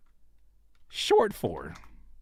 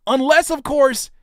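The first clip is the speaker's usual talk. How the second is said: sly aside; 10 semitones higher, 4 dB louder than usual. Acted. Sarcastic aside.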